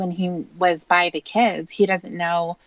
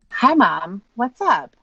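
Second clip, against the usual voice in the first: forced cheerful; 3 semitones higher, 3 dB louder, slower than usual. Acted. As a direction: sound cheerful to hide the hurt. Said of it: "bringing forward a more cheerful tone to his voice".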